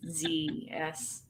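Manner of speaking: whispered spelling. Real, not acted. Spelling the cider name doubtfully.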